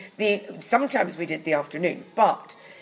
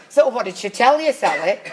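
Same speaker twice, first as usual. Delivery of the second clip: louder, pointed mock prompting; leading panto prompt; 3 semitones higher, 6 dB louder than usual. Actor feeding lines to stoned co-star, leading prompt.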